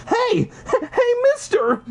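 high calling yell with a laugh. A narrator's reading. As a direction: call out to the store owner. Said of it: "you yell to the store owner".

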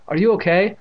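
high, loud check on a friend; crying out in concern. A narrator's reading. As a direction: ask urgently if she's hurt. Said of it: "Evan cried".

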